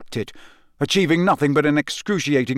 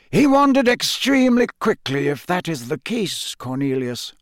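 calm; 5 semitones higher than usual. A narrator's reading. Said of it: "said Dumbledore calmly".

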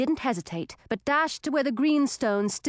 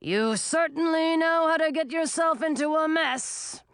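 wry dragon; 5 semitones higher than usual. A narrator's reading. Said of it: "Frosty Breath ... saying".

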